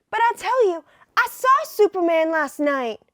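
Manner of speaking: a hint of a pleading reporter; nerdy voice. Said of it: "Clark's gonna have a nerdy voice".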